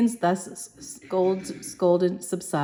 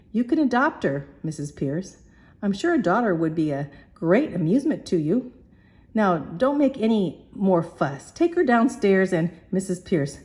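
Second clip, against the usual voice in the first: coaxing. Acted. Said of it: "begs, coaxing".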